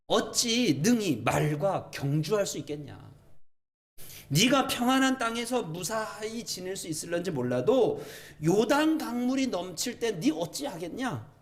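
emphatic paraphrase of scripture; God's question retold emphatically. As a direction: press the question home to the listener. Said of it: "다시요".

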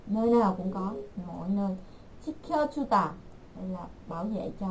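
normal talking voice

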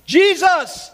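a sudden high, loud cry of the name; shout. Acted. Blind beggar crying out to Jesus, loud high shout. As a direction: call out desperately from the roadside. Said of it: "he began to shout".

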